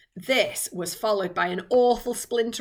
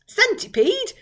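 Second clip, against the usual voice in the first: high, loud call with a rise; yelled name; 13 semitones higher, 8 dB louder than usual. Acted. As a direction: yell across to get his attention. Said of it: "yelled James".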